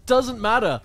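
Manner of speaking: Cockney imitation. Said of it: "he's got the Cockney accent".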